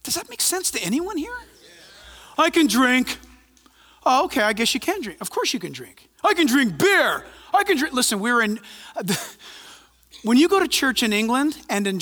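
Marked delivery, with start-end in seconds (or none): 2.4-3.2 smug I can drink, stress on can; mock claim. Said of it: "mocking a believer's claim". 6.2-7.9 "I can drink" pushed higher on I; rising mock claim. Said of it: "mocking a believer's claim".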